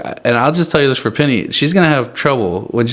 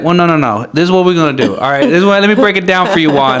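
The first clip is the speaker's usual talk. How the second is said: put-on louder, higher take on a little girl directing; bossy little girl; 4 semitones higher, 3 dB louder, faster than usual. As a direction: play the small director taking charge, a bit higher. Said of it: "and she's like".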